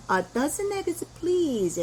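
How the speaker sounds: slow model request in a shop; very slow demo. Shown as a demonstration. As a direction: say it very slowly and clearly, word by word. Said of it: "해서 dozen이라는 걸".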